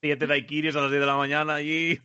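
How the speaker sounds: chuckling through the words; laughing. Real, not acted. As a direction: say it while laughing. Joking about drunk driver photo.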